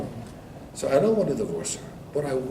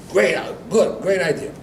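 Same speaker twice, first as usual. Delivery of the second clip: higher, louder burst of approval; eager agreement; 4 semitones higher, 5 dB louder than usual. Retold or imitated. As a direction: act out a husband jumping at advice. Husband welcomes the rabbi's advice.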